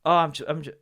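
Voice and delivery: tentative start of an Irish impression; Irish accent. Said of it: "I shouldn't do the accent".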